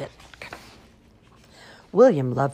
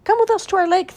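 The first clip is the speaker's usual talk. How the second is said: duckling voice; 9 dB louder, faster than usual. Acted. Duckling invites William.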